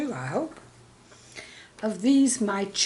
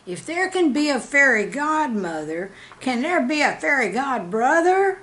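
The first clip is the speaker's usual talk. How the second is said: lightly voiced wondering child, pitch rising higher; curious child; 6 semitones higher, 5 dB louder than usual. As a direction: ask it like a puzzled little boy. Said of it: "and he asked".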